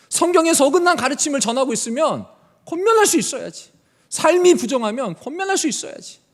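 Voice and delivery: loud, rebuking cry of Paul. Acted. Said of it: "바울은 외치는 거예요". (바울이 교회를 향해 외치는 큰 책망)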